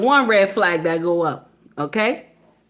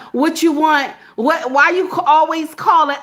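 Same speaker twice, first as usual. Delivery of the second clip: imitating an irritated phone answerer; nasty phone manner; 3 semitones higher than usual. Mimicking a rude worker to a caller, nasty. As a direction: act mildly fed up with the caller. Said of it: "I don't get nasty".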